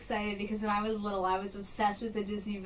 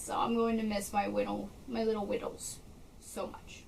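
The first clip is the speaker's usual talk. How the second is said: getting emotional; 5 dB quieter than usual. Real, not acted. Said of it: "I'm gonna get emotional".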